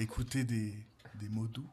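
mock ASMR close to the mic. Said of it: "Ne fais pas peur aux nouveaux venus".

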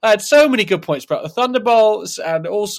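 loud, distorted mic clipping; too close to the mic, audio clipping. Real, not acted. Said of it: "the audio's clipping very badly".

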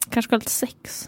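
hushed, near-whispered thought; private musing. Retold or imitated. Voicing the thought in her own head, hushed and sly. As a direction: think aloud very softly, secretively.

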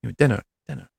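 playful put-on English accent. Host joking to guest about mealtimes in England, put-on English accent. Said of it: "That was a very good English accent".

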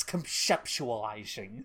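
slow lisping spit on conceptualizing; spray "conceptualizing" slowly like the cartoon cat; Mel Blanc spit voice. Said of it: "Mel Blanc's spit voice".

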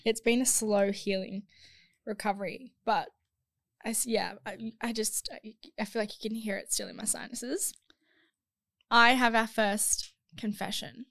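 croaky, blocked-nose voice after a cold; hoarse and stuffy, getting over a cold. Real, not acted. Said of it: "sound a bit like a frog in this episode".

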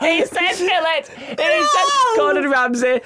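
slow, high, crowing through laughter; triumphant laughing. Real, not acted. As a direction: crow the win, drawing words out. Celebrating winning the argument.

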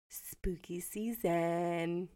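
slow, drawn-out eerie whisper; hushed, stretched-out mock-creepy whisper; spooky whisper. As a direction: whisper it like a ghost story title. Spooky episode title at sign-off.

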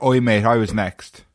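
slow, lightly voiced cockney grumble; a hint of a London bloke; British cockney. Showing what really British sounds like, a mild cockney complaint. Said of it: "making something really British would be like".

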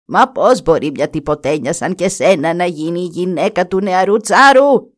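put-on old woman shrieks at the stepdaughter; shrieking. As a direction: swell into an indignant screech. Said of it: "τσίριξε η γριά".

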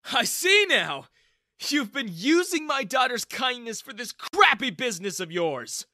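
loud, high accusing shout; angry accusation. Acted. Father accuses Ethan of using his daughter, angry. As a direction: accuse him, loud and bitter. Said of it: "Daniel glared at me".

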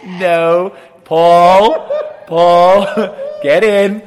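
loud, high yell across to someone outside; re-enacted shouted summons; exasperated shout. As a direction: bellow the name, ordering him in. Yelling at Paul to come inside.

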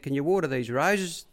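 light impression of the boss; Bart. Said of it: "he said".

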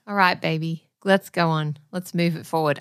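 Jack Nicholson. Acted. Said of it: "I'm being Jack Nicholson".

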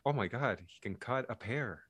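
soft, slowing mock swoon; mock flirting. Actress supposedly flirting over a pear, mock swooning. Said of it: "this is supposed to be flirting".

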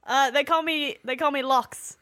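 put-on mild Scottish-accented introduction; lightly voiced Scottish soldier. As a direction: introduce yourself with a hint of Scottish. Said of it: "I guess she's Scottish now".

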